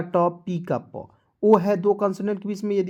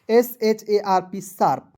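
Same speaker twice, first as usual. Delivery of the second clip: slow spelled drill; 2 semitones higher, 4 dB louder, slower than usual. Shown as a demonstration. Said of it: "spelling drill".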